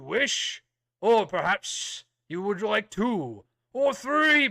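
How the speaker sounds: a hint of a stern royal knight; booming warrior king. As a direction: address recruits with solemn authority. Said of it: "very kind of stern royal voice".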